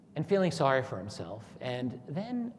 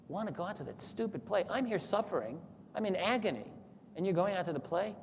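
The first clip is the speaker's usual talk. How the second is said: higher, resentful whining at the family; indignant complaint; 6 semitones higher than usual. Retold or imitated. Ivan protesting to his family, mildly indignant and higher. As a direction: complain bitterly that they leave you suffering.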